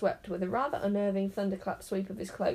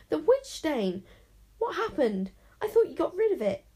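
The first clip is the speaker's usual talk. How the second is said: much higher, louder, horrified bird cries; horrified squawk; 8 semitones higher, 5 dB louder than usual. A narrator's reading. Raven horrified at the boy's witch stain. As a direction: shriek it in alarm like a startled raven. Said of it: "a squawk of absolute horror".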